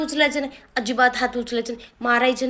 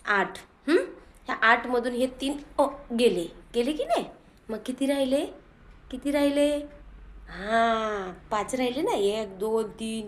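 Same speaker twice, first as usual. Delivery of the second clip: loving teaching. Shown as a demonstration. Mother shows the father how to teach the boy gently. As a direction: coax the child gently through the sum. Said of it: "असं, असं प्रेमाने शिकवा जरा".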